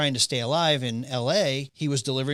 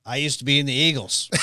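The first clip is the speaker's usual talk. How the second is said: proud shout; 4 dB louder, faster than usual. Retold or imitated. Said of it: "he goes".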